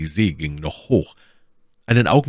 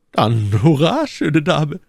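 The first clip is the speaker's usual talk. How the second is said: higher, louder cheer of a sea captain; hearty cheer; 9 semitones higher, 5 dB louder, slower than usual. Acted. Captain cheers Mylady's offer, high and louder. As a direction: hail her with a cheer. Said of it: "rief der Kapitän".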